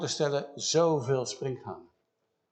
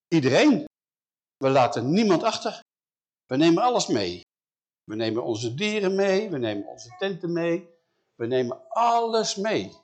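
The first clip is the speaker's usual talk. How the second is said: firm declaration; 3 semitones higher, 4 dB louder than usual. Acted. Moses firmly answers Pharaoh.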